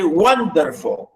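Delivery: "wonderful" with WON lifted and the rest falling; WON-derful, weight at the front; stress on first syllable. Shown as a demonstration. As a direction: lean into the start of "wonderful". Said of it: "stress the first".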